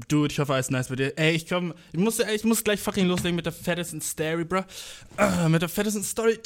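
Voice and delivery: jittery, rushed and wired; too much caffeine. Real, not acted. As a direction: talk fast like you're over-caffeinated. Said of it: "hab viel zu viel Kaffee getrunken".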